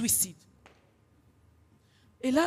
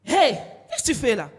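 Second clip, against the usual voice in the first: pillow voice; 5 dB louder than usual. Acted. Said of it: "il me fait".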